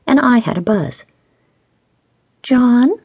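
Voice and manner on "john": high, drawn-out pouty call; pouting. A narrator's reading. Stacy wanting a favour from John, pouting. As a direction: call his name with a pout. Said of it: "Stacy pouted".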